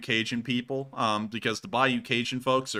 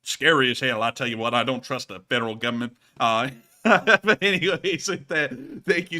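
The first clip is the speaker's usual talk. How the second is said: put-on Southern accent; 4 dB louder than usual. Closing the rant in a Southern accent. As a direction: wrap it up, still in the accent. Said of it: "legible through that accent".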